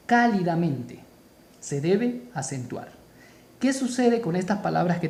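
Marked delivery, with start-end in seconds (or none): 0.1-1.0 "Cálidamente" avec appui net sur la première syllabe; stress on CA. Shown as a demonstration. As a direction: lean on the first syllable of "Cálidamente". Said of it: "la mayor fuerza de voz está en K".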